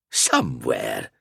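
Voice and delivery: low, slow, knowing; cryptic alchemist. A narrator's reading. Al-Azir teases the knights, low and slow. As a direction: drop it low like a riddle.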